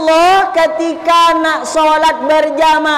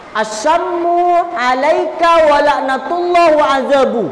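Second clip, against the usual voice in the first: angry retort; 3 semitones higher than usual. Retold or imitated. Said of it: "yang marah Siti Aisyah".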